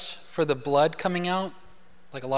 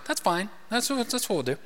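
a mild offhand shrug of a reply, softer; casual ancient Jews; 3 semitones higher, 5 dB quieter, faster than usual. Retold or imitated. Preacher imagines ancient Jews answering, softer casual mock reply. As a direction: toss it off like it's no big deal. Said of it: "I don't see ancient Jews going".

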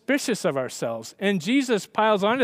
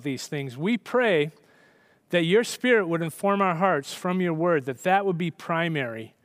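prayer. Real, not acted. Opens with prayer.

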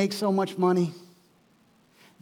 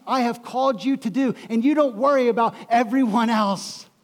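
loud, higher, driving sermon voice; full-force preaching; 4 semitones higher, 3 dB louder than usual. Acted. Pastor preaching Jesus' words to Peter, fervent and loud. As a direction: preach it out with fire to the room.

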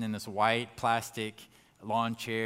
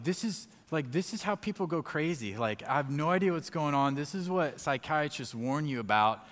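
higher-pitched, worked-up disbelief; retold bewilderment; 4 semitones higher, 3 dB louder than usual. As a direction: reenact a mind starting to panic. Retells fearing he's going crazy.

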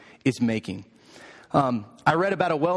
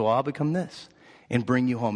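lightly voiced mother bunny, settling lower; 4 semitones lower, faster than usual. Mother bunny answers her little boy, calm and lower. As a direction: answer the challenge calmly, dropping in pitch. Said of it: "And she said".

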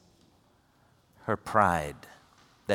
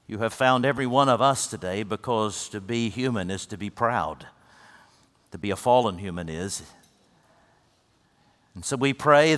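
closing prayer. Acted. Pastor leads closing prayer.

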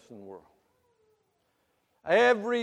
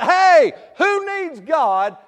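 mock scoffing voice; 11 semitones higher, 13 dB louder, much slower than usual. Voicing the world mockingly.

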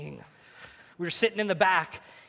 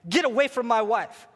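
raised, preacherly confrontation with the serpent; hammed-up defiance; 5 semitones higher, 4 dB louder than usual. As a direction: act a protective husband standing firm. Acted husband defies the serpent.

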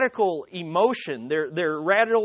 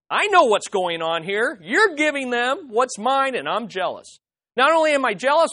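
hammed-up angry complaint, louder; mock jealous anger; 2 semitones higher, 4 dB louder than usual. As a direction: play the resentful people, half-mocking. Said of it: "They're like".

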